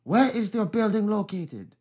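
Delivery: high, slow mock foreign caller; irate caller.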